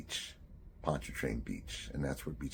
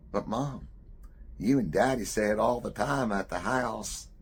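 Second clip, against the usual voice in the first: put-on high, louder childlike protest; innocent child; 8 semitones higher, 7 dB louder than usual. Boy answering his mother in front of everyone, high innocent protest.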